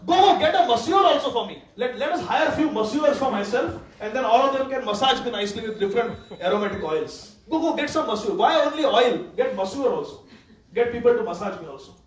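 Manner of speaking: mock-eager, loud orders; sarcastic. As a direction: sneer out the offer.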